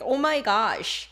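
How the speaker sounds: drawn-out surprised exclamation; stretched, surprised reaction; surprise. Shown as a demonstration. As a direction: exclaim in slow amazement.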